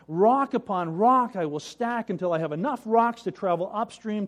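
a determined son talking himself into hard work; earnest rock-stacking brother. Acted.

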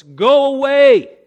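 shrieking demon voice, high and loud; demon's loud cry. Acted. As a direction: scream it out like a tormented demon. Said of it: "he cried out at the top of his voice".

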